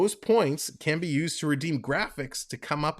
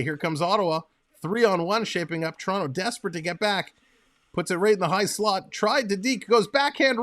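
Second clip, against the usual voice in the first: live game call rising into a shout on the save; mock TV hockey commentator; hockey play-by-play. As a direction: call the action like a broadcaster.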